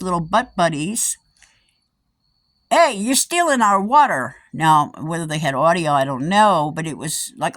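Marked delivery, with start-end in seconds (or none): 2.7-4.4 mock accusing call. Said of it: "crew of monkeys calling out".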